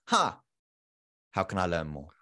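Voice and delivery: musing "huh", then low and soft; quietly curious, pausing before the question; intrigued prospect. Acted. Prospect hooked by a first story, quietly intrigued. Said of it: "somebody tilts their head and goes".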